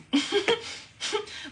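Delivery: high-pitched burst of laughter. Real, not acted. Speaker amused by own point about winning, laughing.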